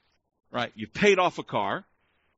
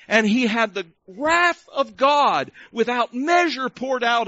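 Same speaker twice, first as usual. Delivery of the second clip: emphatic pulpit delivery with punched key words; impassioned preaching; 3 semitones higher than usual. Real, not acted. Preacher telling the congregation of the cross, impassioned preaching. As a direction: drive each phrase home to the congregation.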